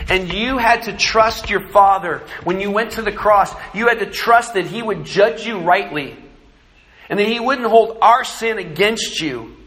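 thanking Jesus before the congregation, fervent prayer; heartfelt prayer. Real, not acted. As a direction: pray it out, building to full force. Preacher prays aloud to Jesus.

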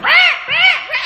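very high, loud pig squeals; shrieking "rah" in bursts, mimicking a pig; imitated pig squeal. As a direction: squeal like a panicked piglet being hugged. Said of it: "this pig was going".

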